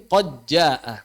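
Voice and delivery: "qad jaa" with d merged into a held j; idgham qiraat lain. Shown as a demonstration. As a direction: glide "qad" straight into a doubled j of "jaa". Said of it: "Dalam qiraat yang lain". ("qad jaa" dileburkan, tanpa bunyi d)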